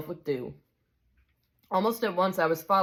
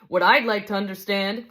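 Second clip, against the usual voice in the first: higher, aggrieved working-man's complaint; indignant big ghost; 4 semitones higher, 5 dB louder than usual. Acted. Big ghost accuses the bright spirit over poor Jack, indignant. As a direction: press the grievance like a wronged bloke.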